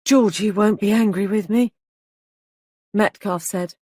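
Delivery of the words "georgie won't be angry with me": a light hint of a pleading child; mildly childlike, pitiful question; piteous child's voice. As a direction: ask it like a frightened little boy. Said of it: "In a piteous child's voice".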